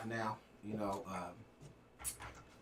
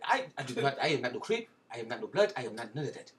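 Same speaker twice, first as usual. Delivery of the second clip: mock Rwandan accent, emphatic denial. Podcaster denying he was a Crip, mock Rwandan accent. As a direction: deny it in a put-on Rwandan accent. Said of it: "if you see me talk like this".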